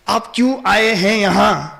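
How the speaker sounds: slow, measured polite question; respectful. Shown as a demonstration. Showing how Krishna should address the gopi, respectfully. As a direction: ask it courteously, without rushing. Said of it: "with respect, Krishna is supposed to say like that".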